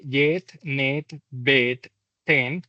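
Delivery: "jet, net, bet, ten" with a short, crisp English E; short E model words, slightly exaggerated; short E demo. Shown as a demonstration. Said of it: "la corta E".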